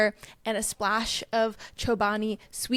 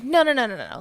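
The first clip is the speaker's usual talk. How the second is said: mock insistent; 2 semitones higher, 6 dB louder, much faster than usual. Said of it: "And she's like".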